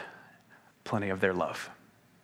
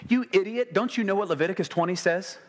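mock scolding; 5 semitones higher, faster than usual. Preacher mocking a scolding Jesus who never said it. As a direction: play the scornful lecturer, rushed.

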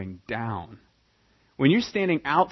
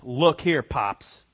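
insulting; 5 dB louder, much slower than usual. Retold or imitated. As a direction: talk down to your own dad. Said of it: "started with".

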